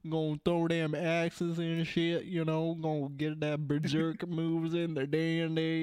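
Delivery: mock Southern good old boy; Southern accent. Riffing about barbarians throwing axes, mock Southern accent. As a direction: lay on a playful stereotypical Southern accent. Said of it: "the stupid Southern bullshit".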